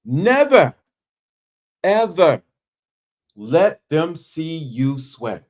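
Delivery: deliberate word-by-word warning, dropping on "sweat"; emphatic pauses. Shown as a demonstration. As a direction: punch "Never", pause, "ever", pause, then slowly land "let them see you sweat". Demonstrating strategic pauses for emphasis.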